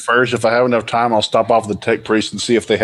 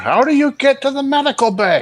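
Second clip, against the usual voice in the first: very high, exasperated, frustrated yell. In character, asking nobody in particular the way to the medical bay: frustrated yell. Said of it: "yell out in frustration at nobody in particular".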